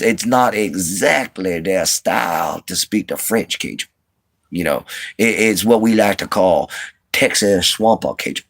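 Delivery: imitated Texas swamp Cajun accent. Shown as a demonstration. Showing viewers Texas Swamp Cajun, imitated Cajun accent. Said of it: "some people that have accents like this".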